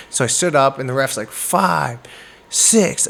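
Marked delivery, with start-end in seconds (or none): 1.3-3.1 referee's count. Retold or imitated. Referee counts over a downed boxer, called out. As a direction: call the count like a ref.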